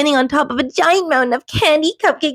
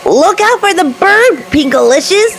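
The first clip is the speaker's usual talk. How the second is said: louder, higher shout; hollered warning; 8 semitones higher, 6 dB louder than usual. A narrator's reading. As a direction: holler a warning across the sky. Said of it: "Peter hollered".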